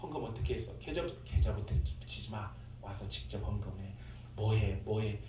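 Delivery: low, subdued mimicked grilling; scolding group leader. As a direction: lightly imitate a stern leader checking up. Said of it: "혼내요". (낮은 톤으로 혼내는 흉내)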